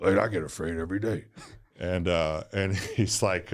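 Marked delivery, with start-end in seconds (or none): 0.0-1.2 a light take on Mike's laid-back voice; imitating Mike. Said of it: "Mike talks like this to me".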